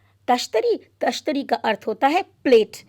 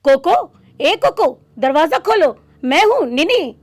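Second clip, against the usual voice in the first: higher, louder call to a friend inside; calling through the door; 4 semitones higher, 5 dB louder than usual. Acted. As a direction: knock and shout his name. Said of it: "दस्तक देते हुए कहता है".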